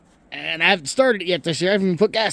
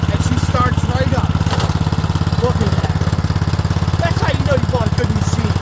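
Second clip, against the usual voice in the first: raised voice over engine; 10 semitones higher than usual. Real, not acted. Talking over a running snowblower.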